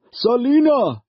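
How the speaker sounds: high, loud scream of her name; father screaming his daughter's name. A narrator's reading. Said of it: "her father screamed".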